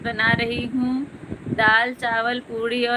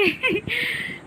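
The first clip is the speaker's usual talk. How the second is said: high giggle; 12 semitones higher, 3 dB quieter than usual. Real, not acted. Everyone joking about her onions.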